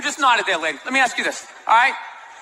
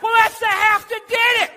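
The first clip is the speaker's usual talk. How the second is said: higher, shouted redneck comeback; mock redneck retort; 8 semitones higher than usual. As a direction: fire it back like a smug redneck. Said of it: "Dude, he's only half black".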